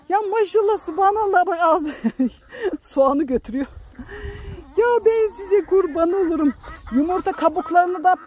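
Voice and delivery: fond high-pitched calls to her hens; cooing to chickens. Real, not acted. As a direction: coo at the hens like they're babies.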